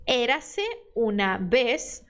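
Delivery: very slow, careful Spanish read for repeating; unhurried Spanish teacher reading aloud; slow model reading. Shown as a demonstration. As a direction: read it out slowly for students to copy. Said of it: "Eu leio e você lê depois de mim".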